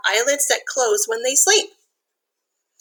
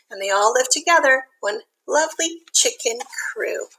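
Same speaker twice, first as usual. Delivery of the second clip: lilting storybook read-aloud; reading to children. A narrator's reading. Teacher reads a rhyming picture book to kids, lilting. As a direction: read the rhyme gently to little listeners.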